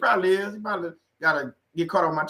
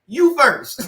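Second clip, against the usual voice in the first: 1 laughing quote; 6 semitones higher, 6 dB louder than usual. Retold or imitated. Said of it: "what the people used to say".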